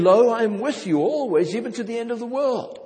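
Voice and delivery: the preacher quoting Jesus to the church, fervently; fervent quote. Retold or imitated. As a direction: lift the promise up with passion. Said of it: "one of those passages saying".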